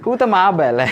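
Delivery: amused, laughing through the words. Real, not acted. Teacher joking to the class about the babas, laughing. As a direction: let a real chuckle run through it.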